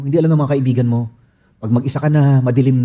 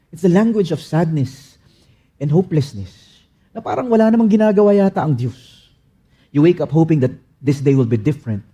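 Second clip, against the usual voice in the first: usual speaking voice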